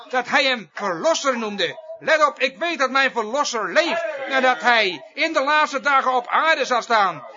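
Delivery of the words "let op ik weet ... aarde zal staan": forceful preaching. Acted. Preacher urging listeners to heed Job's words, forceful preaching. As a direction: proclaim it emphatically, a little raised.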